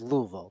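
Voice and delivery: Louisville run together as LOO-vul; local pronunciation. Retold or imitated. Podcaster quoting the pitcher's hometown way, Louisville as LOO-vul. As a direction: drop the middle syllable of Louisville, LOO-vul. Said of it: "That's what they say down there".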